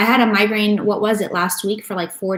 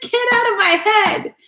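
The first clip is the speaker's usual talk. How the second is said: very high-pitched comic wail, laughing between phrases; mock freak-out; 3 dB louder, slower than usual. Medium fending off masculine energy in her head, mock freak-out. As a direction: squeal in hammed-up protest at intruders. Acts out reaction to voices.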